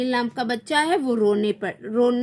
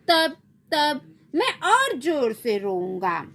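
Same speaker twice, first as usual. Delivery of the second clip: put-on defiant child; 3 semitones higher, slower than usual. Child threatens to cry louder.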